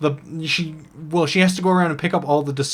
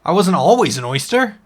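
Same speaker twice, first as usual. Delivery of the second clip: a small shellfish who insists he was once an orc; cursed oyster; 6 dB louder than usual. Acted. GM voicing the cursed oyster to the elf, indignant.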